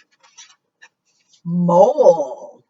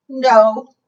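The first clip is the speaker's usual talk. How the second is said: large dragon; 6 semitones higher, 6 dB louder than usual. Acted. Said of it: "said the large dragon".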